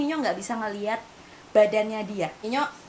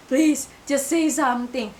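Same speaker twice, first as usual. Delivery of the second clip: tearful plea; 2 semitones higher, 4 dB louder, slower than usual. Retold or imitated. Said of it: "Dan aku akhirnya nangis lagi".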